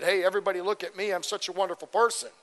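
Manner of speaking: fast, lightly voiced boast; hammed-up self-praise, quick; mock bragging. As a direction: rattle it off like a show-off in a chariot. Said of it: "tooting our horn".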